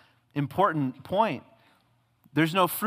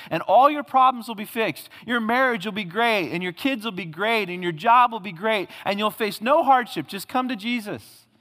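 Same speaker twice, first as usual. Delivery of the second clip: mock prosperity preacher; 5 semitones higher than usual. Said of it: "Don't you hear people talk like that?".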